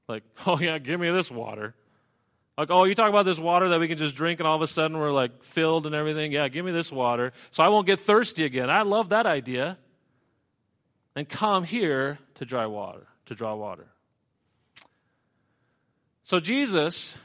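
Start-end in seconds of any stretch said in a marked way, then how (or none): 0.5-1.8 mock eager, dripping sarcasm; sarcastic. 2.7-13.9 quick, scoffing mock enthusiasm; sarcastic.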